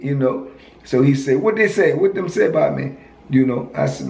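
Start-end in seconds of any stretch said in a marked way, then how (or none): 1.4-3.0 put-on a raised Virgin Islands accent. Friend telling the speaker to ask him directly, in a Virgin Islands accent. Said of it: "I liked his accent".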